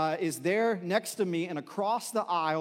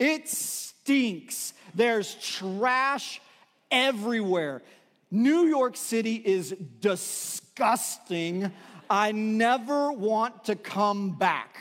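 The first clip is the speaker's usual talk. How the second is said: put-on loudest, most exuberant, drawn-out voice; 4 semitones higher, 4 dB louder than usual. Retelling someone's answer about new york city on a trip's last day: loud, exuberant outburst. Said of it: "in his loudest, most exuberant voice said".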